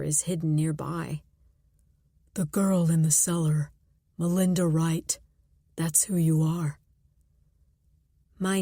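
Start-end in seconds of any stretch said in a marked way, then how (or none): 2.3-6.8 muffled caller voice. Acted. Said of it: "a deep, muffled voice".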